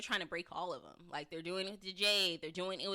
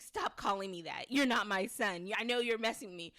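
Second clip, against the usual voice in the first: mildly raised, insistent retelling of an argument; imitated arguing; 4 dB louder than usual. Jim arguing with the caller on the phone, mildly heated. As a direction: act out pushing back at a caller. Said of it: "arguing with the person on the phone".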